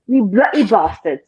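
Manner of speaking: slow attempt at a British accent; American putting on a British accent. Shown as a demonstration. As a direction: try the British accent on bloody bastards, slowly. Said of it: "do you say bloody bastards?".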